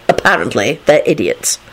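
low, mild dryness; amiably matter-of-fact; amiable. A narrator's reading. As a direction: say it easily, pitched low. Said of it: "Lupin replied amiably".

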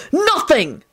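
high, gloating angry yell; jeering, high-pitched outburst; triumphant scream. A narrator's reading. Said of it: "William screamed triumphantly".

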